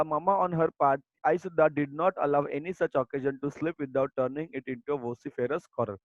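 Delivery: slow, deliberate textbook reading; reading aloud. Acted. Teacher reading the lesson text to her students, slow and deliberate. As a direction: read each word out slowly for the class. Reads the English passage.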